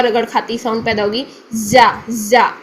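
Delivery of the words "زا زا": deliberately wrong زا demo; wrong rubbing sound. Shown as a demonstration. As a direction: show the mistake with a grating زا. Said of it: "غلط، یہ مخرج آپ کا غلط ہوگا".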